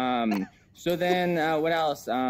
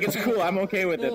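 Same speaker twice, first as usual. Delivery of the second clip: higher, breezy mock reassurance; imitating the guy; 7 semitones higher than usual. Comic quoting a VR stranger who says he's fine, lightly higher. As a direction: toss it off as a carefree stranger. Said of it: "That's what the guy just said to me".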